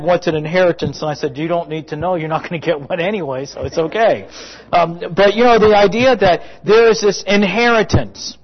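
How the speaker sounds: ordinary delivery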